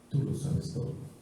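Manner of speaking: soft whispered answer. Acted. Peter answering Jesus the third time, whispered. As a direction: give in with a breath.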